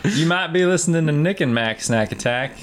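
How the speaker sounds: mock stand-up catchphrase, lightly done; Jeff Foxworthy. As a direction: deliver it like a redneck-joke setup. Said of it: "work in a Jeff Foxworthy joke".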